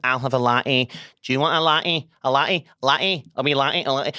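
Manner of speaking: mock Scottish customer repeating herself; Scottish accent. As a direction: chirp the order in broad Scottish. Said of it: "wee women from Scotland were coming in".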